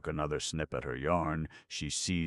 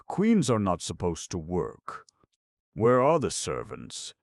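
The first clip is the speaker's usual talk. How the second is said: indignant; 5 semitones higher, 8 dB louder than usual. A narrator's reading. Indignant queen refuses work.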